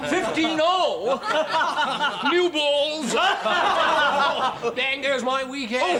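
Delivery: high, loud words through braying laughter. Acted. Posh woman mocking the newcomer, braying with laughter. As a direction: honk each line out between laughs.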